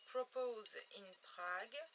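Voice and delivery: French speaker's attempt at English; slow French-tinged English accent; self-mocked English accent. Shown as a demonstration. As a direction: put on an English accent, slowly. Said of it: "Et remarquez mon super accent anglais".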